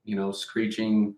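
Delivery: talking while chewing gum; chewing gum between words. Real, not acted. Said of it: "I've got gum in my mouth".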